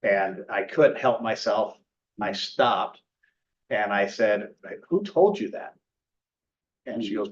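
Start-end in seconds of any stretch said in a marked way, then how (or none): 4.9-5.7 higher-pitched, incredulous challenge; re-enacted pointed question; confrontational challenge. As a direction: call out the claim as you retell it. Challenging a customer he overheard.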